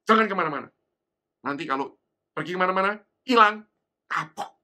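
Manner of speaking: loud parental warning, last words stretched; stern warning. Retold or imitated. Mother warning child not to wander off, stern warning. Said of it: "tapi dengan peringatan".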